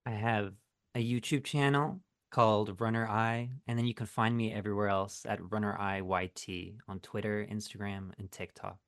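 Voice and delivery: seductive late-night whisper-talk; ASMR voice. Acted. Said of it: "Why'd you say it like a A S M R video".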